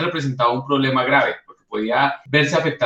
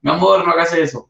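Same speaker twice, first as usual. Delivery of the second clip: sweet pleading. Shown as a demonstration. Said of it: "Con este tono de voz no nos van a hacer caso". (tono dulce y suplicante con el niño)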